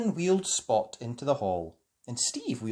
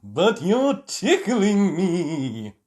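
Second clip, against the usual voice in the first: giggling; 4 semitones higher, 7 dB louder, much slower than usual. A narrator's reading. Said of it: "giggled Tom".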